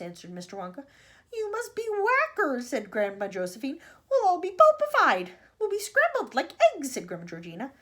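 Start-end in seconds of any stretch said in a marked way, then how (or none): 1.3-2.7 high, loud, slow alarm; appalled outburst. A narrator's reading. Grandma appalled at Wonka's crash plan. 4.1-6.9 high, very loud wail of doom; panicked outburst. A narrator's reading. Grandmas panic about crashing.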